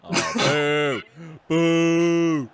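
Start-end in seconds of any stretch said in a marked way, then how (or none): 1.5-2.5 long, jeering boo; playful jeer; drawn-out boo. Real, not acted. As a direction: boo like a heckling crowd. Playful jeer during the game.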